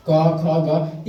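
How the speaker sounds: very slowly, one letter at a time; slow recitation. Shown as a demonstration. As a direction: draw out each consonant for the class. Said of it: "जैसे हम देखिए दे दिया है". (धीरे-धीरे अक्षर गिनाते हुए)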